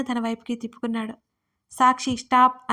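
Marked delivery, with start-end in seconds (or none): 1.7-2.7 louder, slower shout of her name and stop. Acted. Adil stopping the sobbing Sakshi, slow loud shout. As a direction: call her to stop with force. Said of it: "అని అరిచాడు గట్టిగా".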